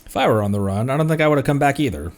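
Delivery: ordinary talk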